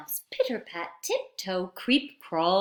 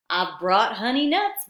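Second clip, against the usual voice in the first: badger voice; 6 dB louder than usual. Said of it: "badger says with a grin".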